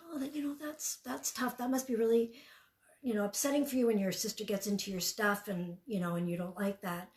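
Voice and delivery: hushed, gentle validating mom; soft validating. Retold or imitated. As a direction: ease her into talking, hushed. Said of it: "she said".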